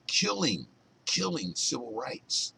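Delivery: high, loud cry on killing; outraged emphasis. Real, not acted. Vlogger to viewers, outraged loud stress on killing. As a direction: hit killing hard, rising in outrage.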